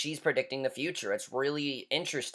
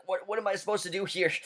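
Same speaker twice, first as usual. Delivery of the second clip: higher, soft bewildered voice; baffled; 6 semitones higher, 4 dB quieter than usual. Retold or imitated. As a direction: sound lost and helpless. Imitating Ed's baffled line.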